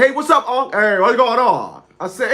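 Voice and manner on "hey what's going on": slow, slurred uncle greeting; Uncle Al impression. Uncle answers his nephew's phone call, slow and slurred. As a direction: drag and blur the words like the uncle. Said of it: "my uncle talked like this".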